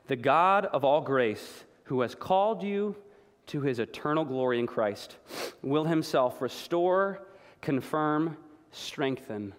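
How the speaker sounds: slow, weighty scripture reading; read slowly. Shown as a demonstration. Pastor reading First Peter slowly so the words land, slow and weighty. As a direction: let each word sink in. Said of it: "I wanna read it slowly".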